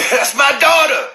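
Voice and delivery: a hint of a furious father; angry dad. Pops going after the guy over his daughter, mock angry. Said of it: "Pops like".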